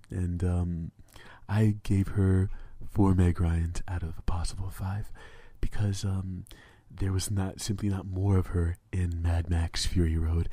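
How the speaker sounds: host a fake show like it's ASMR; mock magazine host voice. Hosting his joke show to his co-host, hammed-up breathy host voice. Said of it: "Every time you make that voice".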